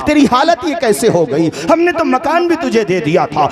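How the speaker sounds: high, anguished mother's cry, lightly voiced; pleading mother. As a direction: voice the grieving mother begging her son for answers. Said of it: "सर पे दस्त शफकत रख के कहती है". (माँ बेटे से पूछती है, ऊँची, दर्द भरी आवाज़ में)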